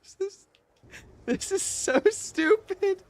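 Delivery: high, loud exasperated yell; frustrated shout. Real, not acted. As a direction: drag out the complaint in disbelief. Frustrated at bad luck.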